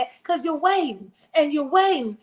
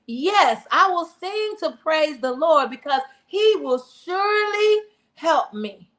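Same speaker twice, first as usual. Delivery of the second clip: scripture reading; 2 semitones higher than usual. Acted. Preacher reading a psalm to the congregation, earnest reading voice. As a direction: read it like a prayer from the pulpit.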